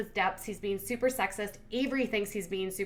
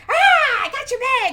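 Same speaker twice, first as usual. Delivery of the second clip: mock yell; 11 dB louder than usual. Man grabbing bag from monkey.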